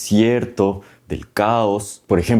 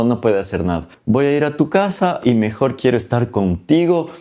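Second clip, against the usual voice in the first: higher, sly coaxing goddess; scheming mother voice; 3 semitones higher than usual. Retold or imitated. Isis plotting, coaxing Seth in a higher sly voice. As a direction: sweet-talk him into the trap.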